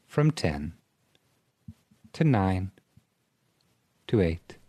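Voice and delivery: lightly put-on meditation guide; soothing countdown for a spoof hypnosis; mock hypnosis induction. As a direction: count them down with long, calm pauses.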